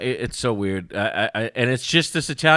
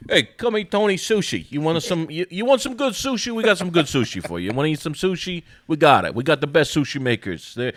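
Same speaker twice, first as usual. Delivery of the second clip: high, hammed-up salesman hawking sushi; over-the-top restaurant barker voice; pushy sushi pitchman; 6 semitones higher than usual. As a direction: sell it like a cheesy billboard chef. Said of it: "He's like".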